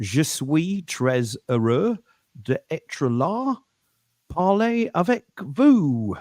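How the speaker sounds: French spoken with an English accent. Demonstrating an English person trying to speak French: French with an English accent. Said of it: "English person trying to speak French".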